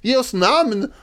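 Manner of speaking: high mock demand; hammed-up call from the benches; childish heckling. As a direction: heckle like an insistent five-year-old. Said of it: "en samling femåringar ungefär som ställer motfrågor".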